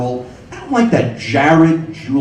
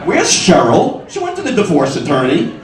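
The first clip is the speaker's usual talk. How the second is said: put-on sarcastic girlfriend; 4 semitones higher than usual. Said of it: "a girlfriend goes".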